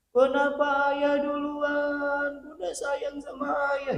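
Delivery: high, slow, loud keening wail; keen it out like a grieving widow; high sing-song lament of a widow screaming in the house. Retold or imitated. Widow screaming, retold by neighbor.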